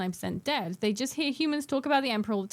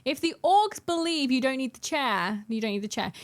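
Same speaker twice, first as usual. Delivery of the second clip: deliberately provocative pronouncement; slow mock-solemn proclamation. Real, not acted. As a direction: proclaim it like a grand trolling thesis. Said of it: "figure out how to phrase this".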